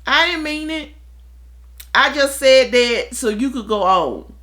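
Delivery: high, hurried placating sorry; old me apologizing. Retold or imitated. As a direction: brush it off with a quick high sorry. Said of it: "the old me would be like".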